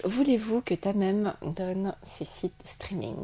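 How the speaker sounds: slow, breathy conspiratorial whisper. Acted. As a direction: whisper it like a secret. Conspiratorial poll announcement.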